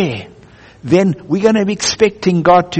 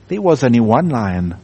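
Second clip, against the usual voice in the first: large deep voice; 6 semitones lower than usual. Acted. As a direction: voice the great lion, low and unhurried. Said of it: "said the large voice".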